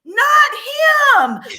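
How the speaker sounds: high, loud, crying scream; anguished scream. Retold or imitated. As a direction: wail it like a nightmare. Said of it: "And I went".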